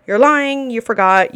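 loud, punchy call-out. Acted. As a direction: call the lie out hard. Accusing a server who made excuses.

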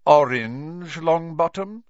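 high, loud rising incredulity; scornful disbelief. A narrator's reading. Snape shaming Neville before class, loudly scornful. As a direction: draw out the colour as an accusing question.

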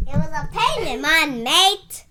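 thick put-on British or Australian accent; loud mock Aussie-British twang; muddled British-Australian accent. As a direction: lay on a wobbly British accent. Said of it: "if you're speaking British or Australian".

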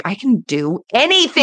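rising, emphatic declaration; elated self-belief. Real, not acted. Declares her new self-belief.

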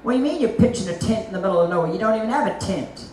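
quick, incredulous jab; scoffing doubters, hurried; mock scoffing doubters. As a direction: rattle off the doubters' scorn. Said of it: "And people say".

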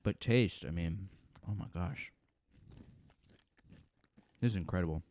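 talking while crunching chips; words over a loud crunch. Real, not acted. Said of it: "Sorry if I'm crunching too loud".

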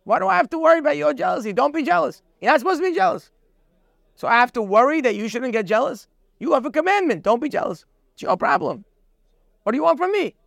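high, exasperated mock protest; indignant objection. Imitating a jealous man's neighbour brushing him off, indignant. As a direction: throw the blame back, fed up. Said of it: "People say that all the time".

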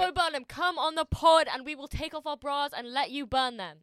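high, loud, hammed-up plea; mock public appeal. Host begging a comedian onto the podcast, mock appeal. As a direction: call out to a star as if they could hear.

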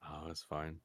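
ordinary delivery

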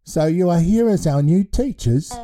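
put-on a cheerful baby in charge of a school; baby headmaster voice.

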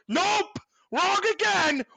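high, mocking nope; sarcastic nope. Real, not acted. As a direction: scoff at it, pitch up. Mocking own hope.

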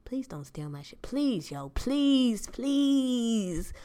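whimpering please please, rising to a wail; half-joking tearful begging; mock desperate pleading. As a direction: beg like your life depends on it. Begging note to neighbor, pleading.

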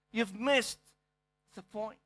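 quiet echo of the line. Acted. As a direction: drop to a soft repeat of the point. Repeats the point softly.

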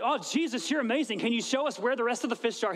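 mock excited. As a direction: gush cheerfully, as if impressed. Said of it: "His response wasn't".

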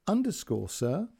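careful polite dictation of numbers; a hint of an Indian call centre voice; call centre girl. Call centre girl's quote.

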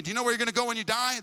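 hammed-up fast preachy yelling; mock street preacher yell. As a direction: parody a pushy preacher ambushing a stranger. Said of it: "That we're yelling at people".

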